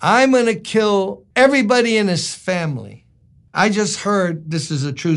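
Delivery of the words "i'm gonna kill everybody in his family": mock angry vow, higher at the start; mildly hammed-up indignation; simmering rage. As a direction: act out an overblown grudge. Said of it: "David now has been simmering with this thing".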